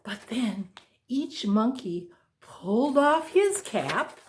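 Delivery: ordinary delivery, nothing marked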